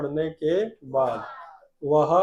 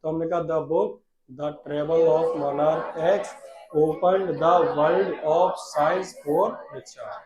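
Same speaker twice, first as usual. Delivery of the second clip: slow, drawn-out words; slow dictation; much slower than usual. Shown as a demonstration. Teacher dictating slowly to the class. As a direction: stretch each word for the class. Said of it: "साथ में बोला करो बेटा".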